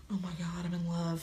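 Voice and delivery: breathy gasp of instant infatuation, half-joking; mock lovestruck whisper. Mocking a stranger falling for someone across the room, mock whisper. Mocking love at first sight.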